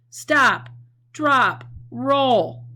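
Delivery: high, loud alarmed commands; loud, urgent teacher demo of panic; urgent shout. Shown as a demonstration. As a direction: shout it like there's a fire. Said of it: "They're being said with a lot of feeling".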